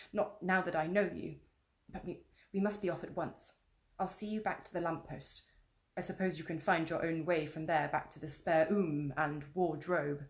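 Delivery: a faun explaining kindly; lightly voiced kindly faun; gentle faun.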